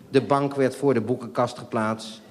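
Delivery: a laugh breaking through the sentence. Real, not acted. Narrator laughing at the sofa being moved again. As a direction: read it while cracking up. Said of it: "Wat even".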